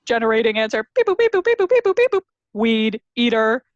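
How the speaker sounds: robot voice. Retold or imitated. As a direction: chant it like a computing machine. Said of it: "the other robot goes".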